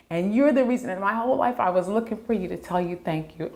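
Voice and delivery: real emotion rising while retelling the thanks; getting emotional. Real, not acted. Wife retelling the drummer's thanks to her husband, getting emotional. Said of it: "Oh, I'm getting emotional".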